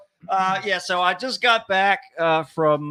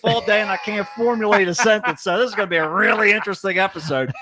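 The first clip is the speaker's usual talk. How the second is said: too much caffeine; 4 semitones higher than usual. Real, not acted. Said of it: "I've been shaking like a leaf all day".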